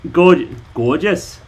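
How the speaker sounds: slow, drawn-out mock Welsh; Welsh accent. Shown as a demonstration. Trying a Welsh word for viewers, slow Welsh. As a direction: stretch "gorgeous" in Welsh. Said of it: "North and South Wales are very different".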